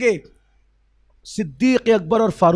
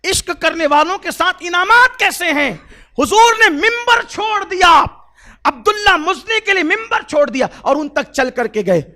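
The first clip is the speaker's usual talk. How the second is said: rising to a full-throated, much higher preaching shout; 7 semitones higher, 7 dB louder than usual. Acted. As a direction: build the miracle into a thundering cry. Preacher building to climax.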